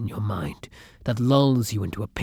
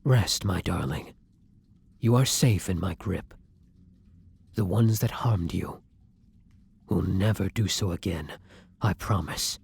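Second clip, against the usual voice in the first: gently soothing, slightly lowered voice; tender reassurance; 3 semitones lower than usual. Acted. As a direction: soothe them to rest. Vampire soothes the victim after feeding.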